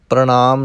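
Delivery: ਪ੍ਰਣਾਮ said with dental n, as "pranaam". Shown as a demonstration. Teacher corrects learners, ਪ੍ਰਣਾਮ with dental n. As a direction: keep the n of ਪ੍ਰਣਾਮ off the retroflex. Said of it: "ਬਲਕਿ ਨੰਨੇ ਨਾਲ ਇਸ ਦਾ ਉਚਾਰਨ".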